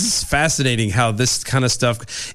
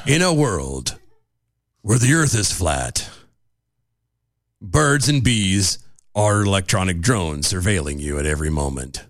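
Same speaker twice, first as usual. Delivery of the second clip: put-on old sci-fi announcer; 8 semitones lower than usual. Trailer voice, deep and slow.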